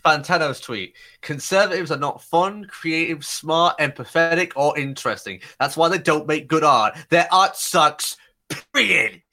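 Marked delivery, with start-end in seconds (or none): 1.2-9.2 mocking sing-song read; stupid voice. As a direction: read it in a silly sneering voice. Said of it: "she started doing a stupid voice".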